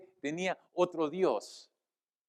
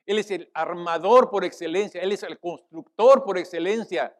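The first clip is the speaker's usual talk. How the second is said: louder sermon proclamation; emphatic preaching; 2 semitones higher, 9 dB louder than usual. Real, not acted. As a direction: proclaim it forcefully to the congregation. Preaches at full force. (predicación enfática)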